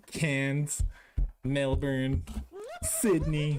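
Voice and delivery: Cairns as CANZ, Melbourne as MEL-bun, Sydney as SID-nee; copied pronunciation. Retold or imitated. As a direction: recite Cairns, Melbourne, Sydney one by one, breaking into laughter. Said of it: "thank you for the, the pronunciations".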